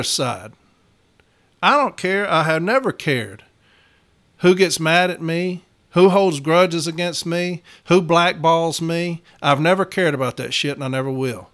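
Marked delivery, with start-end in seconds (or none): 4.4-9.2 slowing, each phrase weighed; slow emphatic list. Real, not acted. Steward tells viewers he never cares, slow and deliberate. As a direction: spell out each one slowly. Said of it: "emphatic list, slowing".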